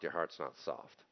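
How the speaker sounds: heart's said low and quiet; soft repeat. Shown as a demonstration. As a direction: drop the voice on your heart's not soft. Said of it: "If your heart's not soft".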